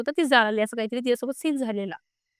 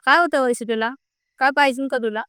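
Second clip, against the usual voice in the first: mildly raised voice, imitating insistent questions; retold loud questioning; 3 dB louder than usual. Friend questioning the crying Vaishe, retold in a mildly raised voice. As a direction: imitate someone asking loudly, without a full shout. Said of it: "असं जोरात विचारलं".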